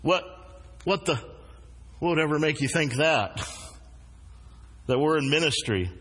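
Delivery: mildly incredulous, halting retold reply; false starts, then a puzzled question. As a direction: stammer in understated disbelief, imitating a stunned passenger. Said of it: "incredulously and said".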